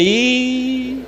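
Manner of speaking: "Ih" held long on one high note; drawn-out letter. Retold or imitated. Showing Luiz which letter is I, "Ih" drawn out high.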